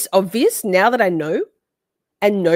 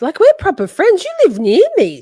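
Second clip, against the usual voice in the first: mock hurt; 11 semitones higher, 7 dB louder than usual. Mock betrayal by friend.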